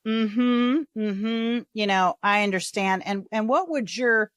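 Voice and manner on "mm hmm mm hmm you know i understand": "Mm-hmm, mm-hmm" tossed off, then "I understand" rushed; dismissive mm-hmm. Shown as a demonstration. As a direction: brush them off with a lazy "I understand". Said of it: "not come across as just, like, being like".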